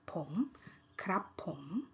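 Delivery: KRAP short, then POM rising. Shown as a demonstration. Teacher recapping male speakers' particle, rising tone. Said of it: "rising tone".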